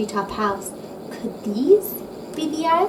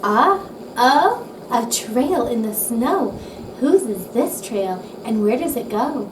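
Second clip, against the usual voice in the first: excited discovery. Acted. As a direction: call out the find with wonder. Child spotting tracks in snow.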